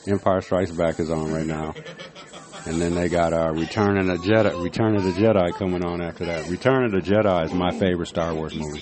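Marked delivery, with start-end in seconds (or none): 2.6-8.8 talking around a cigarette; words muffled by a cigarette; cigarette in mouth. Real, not acted. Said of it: "I had a cigarette in my mouth".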